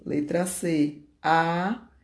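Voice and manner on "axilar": "a que se lá" slowly split with pauses; slow, segmented "a que se lá"; syllable by syllable. Shown as a demonstration. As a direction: sound out "a que se lá" as pieces of one word. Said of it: "Três sílabas".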